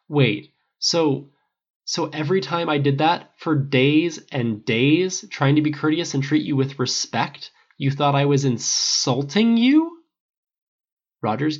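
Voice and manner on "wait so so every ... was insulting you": upset, louder and higher, pleading; hurt and rattled disbelief; distressed. Acted. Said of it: "looking more and more distressed".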